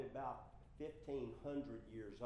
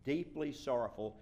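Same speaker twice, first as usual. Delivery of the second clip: louder, with weight on "Deeply"; emphatic; 2 semitones higher, 7 dB louder than usual. Shown as a demonstration. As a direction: press firmly on "Deeply sorrowful". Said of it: "That is emphatic".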